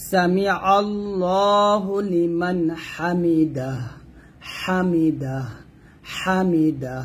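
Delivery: slow recitation, হামিদা ending on a silent হ; stop with sukun. Shown as a demonstration. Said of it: "এরকম".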